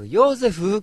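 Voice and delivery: high, theatrical call; Ōta of Bakushō Mondai. Acted. Comedian's Joseph bit recalled for contrast, high theatrical call. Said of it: "これ爆笑問題太田のパクリ".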